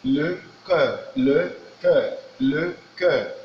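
"le cœur" said slowly in French, clear eu vowel; French pronunciation. Shown as a demonstration. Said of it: "The first one says".

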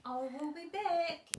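lightly voiced mother bird, promising. Mother bird telling her egg she will return, lightly voiced and slow.

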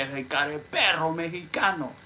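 mock telling-off in a put-on voice; put-on insulting outburst; imitated scolding. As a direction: imitate someone laying into you. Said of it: "así me decía".

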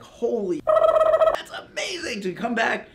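sky-high stretched-out holy, that's amazing; amazed outburst. Retold or imitated. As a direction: squeal with disbelief at the speed. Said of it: "I was like".

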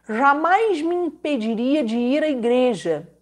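usual speaking voice

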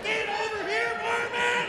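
very high, put-on holler; high-pitched acted summons; calling out. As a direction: call someone over in a high sustained voice. Rancher calling out in the bit.

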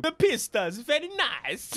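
hammed-up would-be Italian accent; mock Italian accent. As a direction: put on a bad Italian accent. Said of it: "sounds more like Borat".

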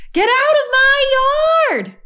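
high, loud furious yell; angry shout. A narrator's reading. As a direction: chase the pig off with your voice. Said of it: "she shouted at Mercy".

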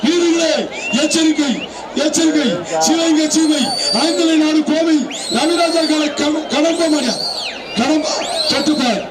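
loudspeaker arena announcer; through a megaphone. Real, not acted. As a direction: call it out over the PA. Arena announcer calling over loudspeakers.

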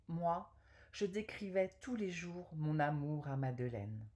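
measured poetry reading with pauses between verses; poem recital. Acted. Woman reading an Apollinaire love poem to viewers, poem recital. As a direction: recite the verse phrase by phrase, carefully articulated.

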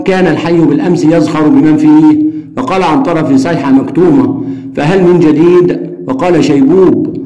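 steady reading of a story dialogue; reading aloud. Shown as a demonstration. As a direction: read the exchange out for the class. Reads dialogue passage aloud. (قراءة حوار القصة بهدوء)

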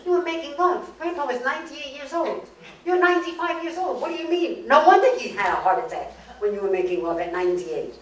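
high-pitched, incredulous outburst; shocked granddaughter. Acted. Granddaughter hears how Grandpa died, acted shocked disbelief. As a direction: scold in disbelief, voice shooting up.

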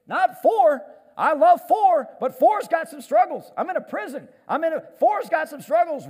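loud, high emphatic preaching with a shouted peak. Real, not acted. Preacher driving home the point to congregation, loud and high. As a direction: drive the point home at full voice.

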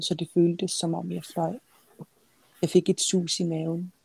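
measured literary reading; story narration. A narrator's reading. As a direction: read it as a novelist reading her own book. Author reads her novel aloud.

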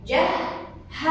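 slow جهز, split so the ه sounds twice; doubled letter demo. Shown as a demonstration. Teacher showing pupils the repeated ه, جهز slowly split. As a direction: stretch out جهز syllable by syllable, doubling ه. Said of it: "حرف الهاء مرة ثانية".

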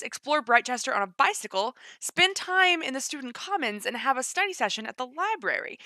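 lively promo read-out; reading aloud. Real, not acted. Reading game features to viewers, lively read-aloud. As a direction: read the blurb with bouncy emphasis.

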